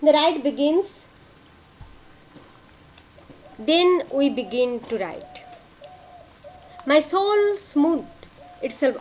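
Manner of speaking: measured verse reading, pausing after each line; poem recitation. Acted. Reads the poem stanza aloud.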